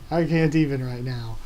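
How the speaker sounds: emotional, can't even; gushing, at a loss for words; overwhelmed. Real, not acted.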